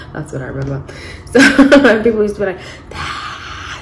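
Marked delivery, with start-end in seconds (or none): 2.9-3.8 hushed, voiceless imitation scream; mock fan scream. Recalling crazed fans of the band, hushed mock scream. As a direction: scream like a fan, but keep it under your breath. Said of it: "screaming about them".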